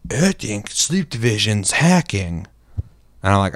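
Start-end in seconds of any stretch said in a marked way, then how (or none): 0.1-2.5 slow, put-on complainer voice; imitating a player crying hacker; mock accusing player. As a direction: drag out the accusation in a silly voice.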